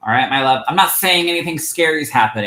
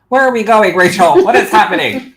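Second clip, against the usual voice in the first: surprised; 7 semitones higher, 7 dB louder than usual. Real, not acted. Comment pinned and unpinned unexpectedly.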